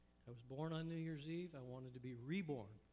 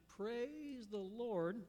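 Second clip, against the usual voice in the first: drawn-out, higher call of praise; shouted praise; 6 semitones higher, much slower than usual. Acted. Millie shouts her morning praise from the porch. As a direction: sing it out slowly to the sky. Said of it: "after she shouted".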